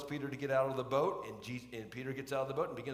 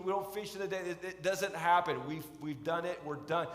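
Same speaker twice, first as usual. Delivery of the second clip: exasperated fisherman; 3 semitones higher, 3 dB louder than usual. Retold or imitated. Peter objects to fishing advice.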